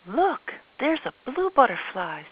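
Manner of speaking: put-on high, slow, excited child; wide-eyed child voice; little girl voice. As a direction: point it out like an eager little girl. Child Olivia voiced in story.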